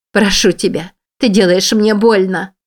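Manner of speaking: gasping plea. Acted. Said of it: "ахнула она".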